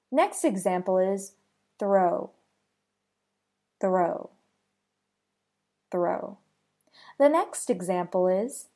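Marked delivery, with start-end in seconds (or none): 1.8-6.4 "three" with a quick th rolling into the r; "three" with the tongue pulling straight back from the th into the r; "three" with the th and r run together fast; TH blended into R. Shown as a demonstration. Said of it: "rolls and pulls back quickly to blend".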